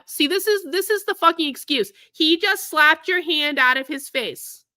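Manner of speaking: indignant, derisive quote; mocking the excuse. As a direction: throw their excuse back in mock disbelief. Mimics excuse made by commenters.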